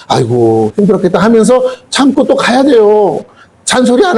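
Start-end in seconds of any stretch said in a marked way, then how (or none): 0.1-1.2 inner sympathy. Retold or imitated. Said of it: "속으로".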